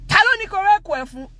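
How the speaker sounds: high, loud, rapid imitated outburst; dad beside himself. Dad demanding who opened the door, beside himself. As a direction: fire it off like a furious father. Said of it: "my dad was just beside himself".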